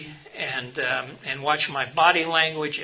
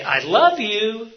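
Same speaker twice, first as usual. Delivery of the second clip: higher, louder, slow exasperated I love you; fed-up I love you, louder and slower; 7 semitones higher, 6 dB louder, slower than usual. Shown as a demonstration. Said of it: "By just sounding exasperated or not".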